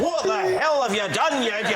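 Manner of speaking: high, hammed-up outraged child; shocked young son. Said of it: "the shock on his face".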